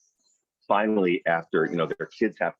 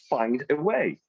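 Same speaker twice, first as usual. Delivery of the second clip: ordinary talk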